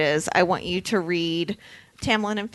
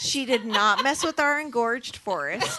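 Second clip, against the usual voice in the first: laughing; 3 semitones higher than usual. Real, not acted. Laughing at the joke.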